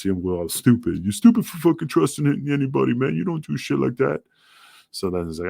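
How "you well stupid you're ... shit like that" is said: higher-pitched mock telling-off; retold scolding. DeVito getting on his ass for trusting anybody, retold scolding. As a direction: act out a friend chewing you out. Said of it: "DeVito got on my ass".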